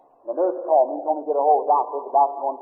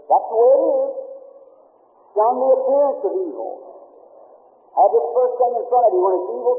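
raised, ringing preacher's exhortation; preaching at full force; 3 semitones higher than usual. Acted. Preacher exhorting his congregation to shun evil, at full force. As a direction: drive the warning home to the congregation.

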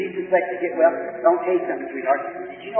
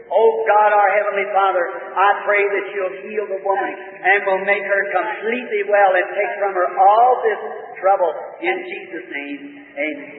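earnest preacher's prayer, rising and falling; fervent prayer; 3 semitones higher than usual. Real, not acted. Preacher praying over a sick man, fervent prayer. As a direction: plead with God for this man's healing.

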